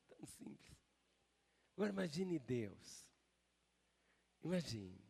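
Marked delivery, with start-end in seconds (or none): 0.1-0.8 whisper. Acted. Repeated phrase whispered.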